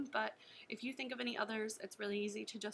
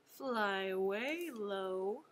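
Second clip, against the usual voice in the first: low voice; 4 semitones lower than usual. Shown as a demonstration.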